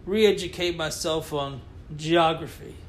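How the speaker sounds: slow, solemn press-statement apology; mock public apology. Co-host apologizing to Scotland, slow mock-solemn statement. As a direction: read it like a formal apology. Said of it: "That sounded sincere".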